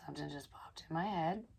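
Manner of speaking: hushed muttered whisper; a quiet whispered aside. Real, not acted. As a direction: drop to a whisper.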